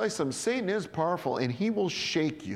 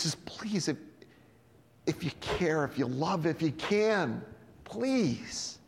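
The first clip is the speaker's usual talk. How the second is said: pleading father; slower than usual. Retold or imitated. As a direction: beg gently, almost breaking. Desperate father begging Jesus.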